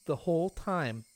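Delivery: put-on a creepy sweet girl teasing; Rena's sweet voice. Rena telling Keiichi sweetly.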